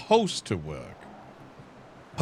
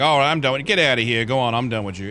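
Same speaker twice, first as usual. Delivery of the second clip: louder, impatient wave-off; dismissive brush-off; 5 dB louder, faster than usual. Retold or imitated. Lawyer imitating the AG brushing the client off, louder and dismissive. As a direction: shoo him out like he's wasting your time. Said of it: "It was more like".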